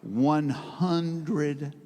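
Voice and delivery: drawn out very slowly, trailing low; dazed slow echo of the price; stunned slow repeat. Acted. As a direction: let the number sink in word by word.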